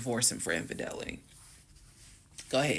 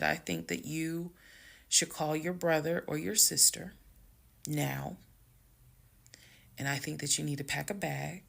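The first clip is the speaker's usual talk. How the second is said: measured, unhurried order to leave; calm. Retold or imitated. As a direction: spell it out evenly, with pauses. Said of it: "exactly how I was talking".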